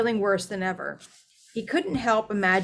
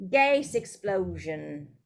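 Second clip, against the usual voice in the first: grunted; much slower than usual. Acted. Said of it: "grunted Ernie".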